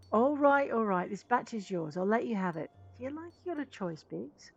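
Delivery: lightly acted concession, opening loud; grudging engineer. Engineer yields his sand for a role, grudging then hopeful. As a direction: give in, then bargain hopefully for a part.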